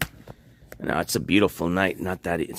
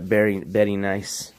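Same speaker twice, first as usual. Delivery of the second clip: lightly put-on Borat accent. Streamer joking about his accent, half-hearted Borat catchphrase. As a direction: say it in a loose Borat-style accent. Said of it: "trying to sound like Borat".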